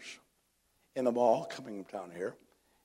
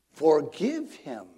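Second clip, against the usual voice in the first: solemn command; 3 semitones higher, 5 dB louder, much slower than usual. Retold or imitated. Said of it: "So Jesus said".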